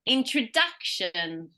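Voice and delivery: DUC punched in Introduction; stress before the suffix. Shown as a demonstration. Teacher giving an example, DUC strong in Introduction. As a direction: slowly say Introduction leaning on duc. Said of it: "always has the most stress".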